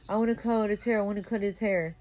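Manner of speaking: a hint of a nagging boyfriend; mimicking partner. Mimics partner's repeated complaint.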